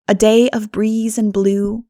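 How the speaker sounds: usual speaking voice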